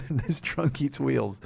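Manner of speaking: "This trunk eats wheels" drawn out slowly like a slogan; slow mock bumper-sticker delivery; slow slogan read. Shown as a demonstration. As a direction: savor each word of "This trunk eats wheels". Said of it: "sounds like a seventies bumper sticker".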